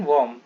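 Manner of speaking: वॉर्म said "vom", with a v and no r; pronunciation demo. Shown as a demonstration. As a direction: answer with वॉर्म as a single "vom". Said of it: "क्या होता है इसका उच्चारण?".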